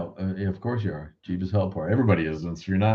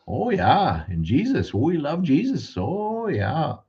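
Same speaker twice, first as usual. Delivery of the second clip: much higher, sing-song Upper Midwest churchy local; Wisconsin local accent; 7 semitones higher, slower than usual. Retold or imitated. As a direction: gush about Jesus like a Wisconsin small-town local. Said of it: "They really do talk like that here".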